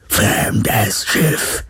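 slow, menacing robot loudspeaker voice; electronically amplified boom. A narrator's reading. Druhun soldiers hail the stranded ship, booming electronic voice. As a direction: boom it out like a terror machine. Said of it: "dröhnte eine elektronisch verstärkte Stimme".

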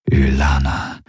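low, lingering name; tender murmur. A narrator's reading. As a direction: say the name low, lost in the kiss. Lover's murmured name during kiss.

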